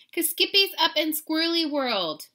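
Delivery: high, loud singsong lilt. A narrator's reading. Sisters tease about kitty on the wire, high singsong. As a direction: chant it like little sisters. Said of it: "sang his sisters".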